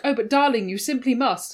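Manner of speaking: lightly hammed-up posh drama voice; a hint of theatrical period speech; stagey old movie actor. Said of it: "they'd be like".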